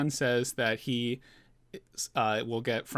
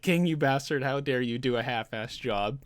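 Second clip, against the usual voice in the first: mock freak-out. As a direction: imitate an outraged rebuke, half-hearted. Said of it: "freaks out".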